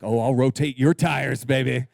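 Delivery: low, suggestive mock husband; hammed-up seductive guy; mock flirt, husband to wife; flirty husband. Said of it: "And you're like".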